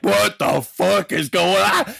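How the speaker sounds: slow, high, hammed-up disbelief; bewildered outburst. Hulk confronted by Macho, mock bewildered outburst. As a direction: stretch it out like a baffled wrestler.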